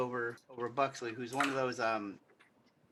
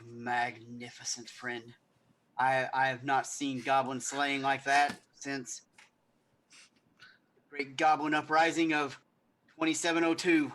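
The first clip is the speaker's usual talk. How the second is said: pompous noble. Acted. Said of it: "And he was like".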